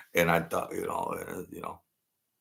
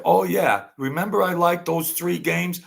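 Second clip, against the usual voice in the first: retold joking self; 9 semitones higher, 4 dB louder than usual. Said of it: "And I said".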